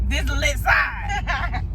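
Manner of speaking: slow, hyped-up showoff line. Shown as a demonstration. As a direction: sell it like a hype host. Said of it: "They about to see me lit".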